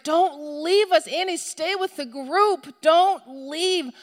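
high, slow, stretched-out pleading reprimand; acting an overwrought parent telling off a child; frantic scolding. Mother scolds the just-found lost child, acted frantic scolding.

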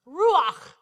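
"ruach" with a throat-scraped final CH; guttural Hebrew ch. Shown as a demonstration. Preacher showing off his Hebrew, "ruach" with guttural CH. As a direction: land firmly on "ruach", rasping the ending. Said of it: "That sounded pretty good".

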